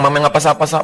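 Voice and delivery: normal talking voice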